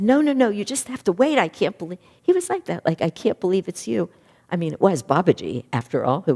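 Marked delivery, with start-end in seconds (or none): 0.0-4.1 loud, much higher, agitated protest; can't contain the joy, blurt it out; overwhelmed disciple who can't sit still; retold overexcitement. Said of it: "But Lahiri couldn't".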